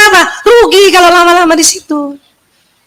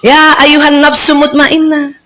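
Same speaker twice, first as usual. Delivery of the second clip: gentle angelic call; slower than usual. Retold or imitated. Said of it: "Malaikat manggilnya enak".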